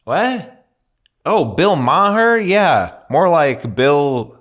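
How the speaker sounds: high-pitched comic riffing on a shout; Mark Normand. Retold or imitated. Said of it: "and he's like".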